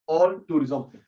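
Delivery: All and tourism split apart slowly; a slow demo of All tourism; said in parts. Shown as a demonstration. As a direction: break the word into All and tourism. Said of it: "तोड़-तोड़ के बोलेंगे".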